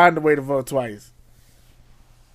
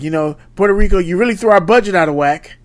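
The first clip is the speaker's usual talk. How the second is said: a lightly voiced Trump, a bit higher and louder; mock Trump; 5 semitones higher, 4 dB louder than usual. Co-host mocks Trump's Puerto Rico remark, lightly voiced. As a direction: do a hint of a clueless president. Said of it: "somebody did the voiceover".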